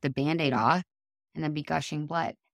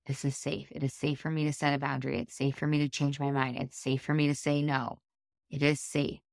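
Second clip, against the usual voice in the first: calm self-reassurance. Shown as a demonstration. Models self-soothing affirmations.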